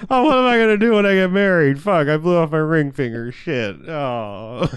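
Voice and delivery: high comic wail sinking to a groan; lightly hammed-up woe, fading out; mock sad lament. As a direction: whine it high, then deflate. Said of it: "so, like, she's sad".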